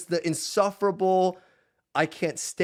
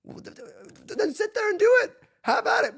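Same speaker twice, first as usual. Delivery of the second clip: sarcastic dismissal; 14 semitones higher than usual. Real, not acted. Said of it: "sarcastic dismissal of doomers".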